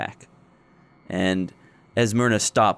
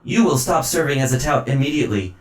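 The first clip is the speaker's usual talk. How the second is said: robotic announcement voice; mechanical voice; 3 semitones higher, 4 dB louder than usual. Acted. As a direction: stiff machine announcer. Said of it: "And it says".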